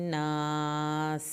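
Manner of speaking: الناس held long, ending on a whistling س; whistled س. Shown as a demonstration. Teacher shows students how to end الناس with a hissing س. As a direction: let the س of الناس hiss like a whistle. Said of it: "سین کو سیٹی کی آواز کے ساتھ پڑھنا ہے".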